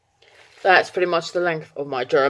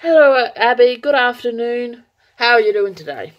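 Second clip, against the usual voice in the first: translated greeting; 6 semitones higher than usual. Shown as a demonstration. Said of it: "if you want to know what I just said".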